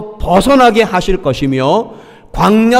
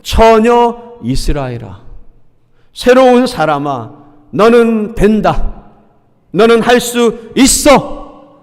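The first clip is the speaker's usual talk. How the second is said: encouraging voice of God; 3 semitones higher, slower than usual. Acted. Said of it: "하나님은 달라요".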